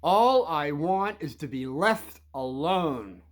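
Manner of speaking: slow, firm and steady; slow, deliberate words to the bullies; loud, firm statement. Shown as a demonstration. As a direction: say it clearly so all can hear.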